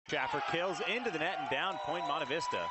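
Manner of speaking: live volleyball commentator's lift; excited play-by-play. Real, not acted. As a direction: call the point with rising excitement. Live call of a point.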